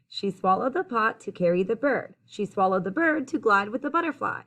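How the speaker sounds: clear, lilting rhymed storytelling; picture-book read-aloud. A narrator's reading. Reader telling children about the old lady, lilting storytime read-aloud. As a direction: read the rhyme out to young listeners.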